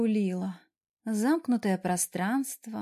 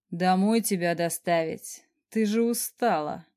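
slow, amused, half-hidden smile; a boss holding back a grin; smirking boss; 2 semitones lower than usual. Acted. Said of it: "хмыкнул босс".

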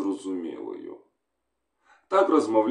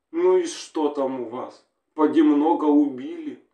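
higher woman on the phone, relieved; wife on the phone greets her husband, higher female voice; woman's voice; 4 semitones higher, 3 dB louder than usual. Acted. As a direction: voice a wife hearing her man at last. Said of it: "Хлопчик почув жіночий голос".

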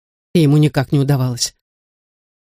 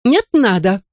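snapped retort, higher pitch; curt cutoff; 5 semitones higher than usual. A narrator's reading. Woman refusing the man's plea, snapped curtly. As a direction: cut him off flat out. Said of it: "отрезала мисс Ходж".

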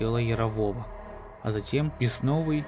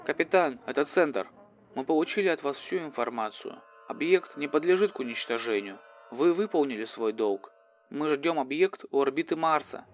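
formal mission control; 3 semitones higher than usual. Acted. Mission control answers coldly.

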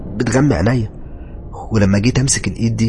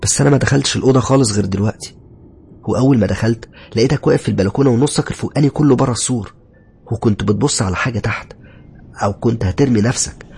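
raised, pressing bewilderment; astonished, higher-pitched account; puzzled wife; 4 semitones higher, 3 dB louder than usual. Acted. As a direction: question him in baffled concern, building to the end. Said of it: "ردت عليا ندى وهي مستغربة".

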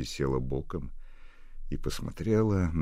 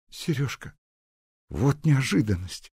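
put-on surprised girl; 11 semitones higher, 6 dB louder than usual. Nadya surprised by the call.

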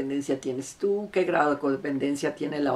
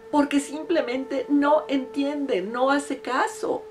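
desperate patient; 4 semitones higher, 4 dB louder than usual. Retold or imitated. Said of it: "imité el tono de voz que ella utilizaba".

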